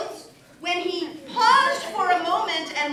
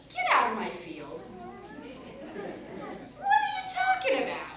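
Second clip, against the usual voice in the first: put-on botched Argentinian accent; 3 semitones higher, 5 dB quieter, faster than usual. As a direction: badly fake an Argentinian farmer's accent. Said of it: "That's not an Argentinian accent, by the way".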